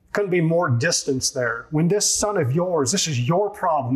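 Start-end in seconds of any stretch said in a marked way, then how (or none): 1.7-2.9 scornful son of yours. Retold or imitated. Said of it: "he doesn't call him his brother".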